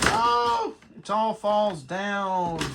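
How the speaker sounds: sudden high startled cry, then slow; surprised. Real, not acted. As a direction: caught off guard as it collapses. Toy box collapses suddenly.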